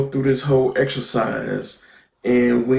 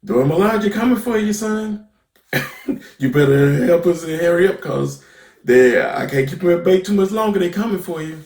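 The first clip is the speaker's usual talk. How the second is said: Bucky warning Zemo; 5 semitones higher, faster than usual. Retold or imitated. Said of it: "basically tells Zemo".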